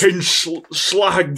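lightly put-on Cockney; a touch of London geezer; Cockney accent. Shown as a demonstration. Host outdoing the actor's accent in light Cockney. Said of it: "I'm doing a better Cockney accent".

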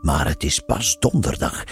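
a hint of a pompous detective; lightly voiced smug Frank. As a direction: Frank showing off to Eddy. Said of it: "zei hij".

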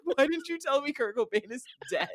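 high-pitched retold outburst at mom; retold upset yell. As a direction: yell it like a heartbroken teen. Teen yelling at mom retold.

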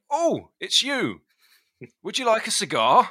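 hammed-up cheery dad, pitched well up; imitating dad. Dad offering his sweaty cycling son a cigar, high mock voice. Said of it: "and he went".

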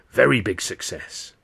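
lightly voiced old fortune teller; a hint of a rasping seer, stressing very; mildly mystic old woman promising success. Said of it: "this old Chinese woman says".

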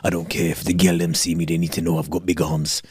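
lightly mocking a friend who flexes his arms; mock show-off. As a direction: drop into a dopey braggart voice to tease him. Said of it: "This guy was like".

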